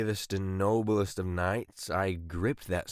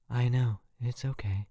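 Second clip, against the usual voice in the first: calm voice; 3 semitones higher than usual. Retold or imitated. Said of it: "in the calmest voice".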